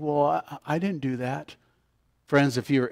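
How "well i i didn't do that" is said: soft imitation of a private protest; hushed mock denial; imagined self-defence. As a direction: drop the volume as if thinking it. Voices listener's self-defence.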